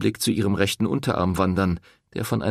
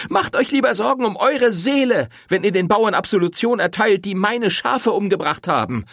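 higher, louder, seething anger; enraged woman accusing the priest; furious; 13 semitones higher, 5 dB louder than usual. A narrator's reading. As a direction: spit out the family's shame.

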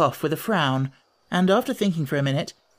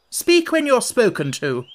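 high, loud imperious rebuke; sharp interruption; 9 semitones higher, 5 dB louder than usual. A narrator's reading. Red Queen interrupting timid Alice, sharply. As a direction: cut in sharply, pitched high. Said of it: "the Queen sharply interrupted her".

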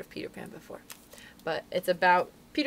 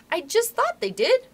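high, louder, drawn-out interruption; excited; 6 dB louder than usual. A narrator's reading. Curly breaking into Wendy's story, excited. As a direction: break in, bursting to speak. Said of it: "Curly broke in excitedly".

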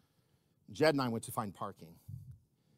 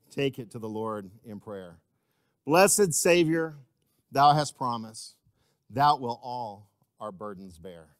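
slow, spaced-out verse sinking lower; hymn recited, unsung; 3 semitones lower, 5 dB louder, slower than usual. Real, not acted. Preacher finishing the hymn with his church, slow reverent recitation. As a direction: recite it reverently, drawing out each phrase.

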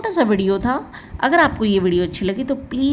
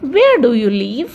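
very slow, said slightly louder; slow example sentence; 4 dB louder, much slower than usual. Shown as a demonstration. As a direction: read it slowly for learners. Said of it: "एक sentence देख लेते हैं".

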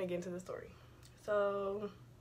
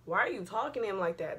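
louder confronting question with swooping pitch; retold questioning; 4 dB louder than usual. Sibling challenging mom's boyfriend downstairs, pointed retold question. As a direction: ask it pointedly, voice jumping up. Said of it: "I simply asked".

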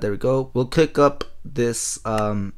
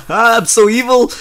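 mock evil; 9 semitones higher, 6 dB louder than usual. Gloating after trapping creeper.

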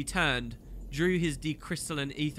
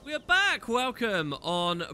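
much higher, louder cheery welcome; excited greeting; 8 semitones higher, 4 dB louder, slower than usual. Real, not acted. Host welcomes viewers back, excited. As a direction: burst in with energy.

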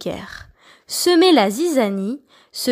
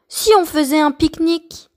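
quick, higher excited call; eager shout; 5 semitones higher, faster than usual. Acted. Letter P excitedly suggesting a picnic. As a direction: pitch the idea with a rush. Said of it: "P s'écria".

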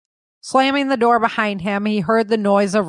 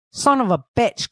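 frustrated exclamation; 4 semitones higher than usual. Acted. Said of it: "Cole exclaimed".

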